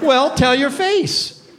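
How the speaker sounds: slow, drawn-out "Well, tell your face."; slow teasing retort. Retold or imitated. Coworker teasing a glum employee, slow and drawn-out. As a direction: tease them slowly, "face" stretched out. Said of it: "he'd say".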